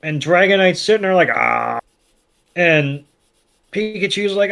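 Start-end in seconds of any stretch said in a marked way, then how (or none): 1.3-1.8 low, drawn-out mock "aah"; mock shocked groan. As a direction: hold a low groan, playing at being zapped. Dragonite shocked by Thunder Shock.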